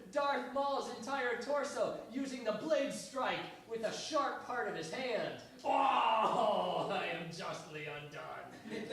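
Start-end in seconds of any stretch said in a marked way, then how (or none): 5.6-8.9 loud "Oh" then slow lament; hammed-up theatrical death line; dramatic dying cry. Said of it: "Darth Maul says".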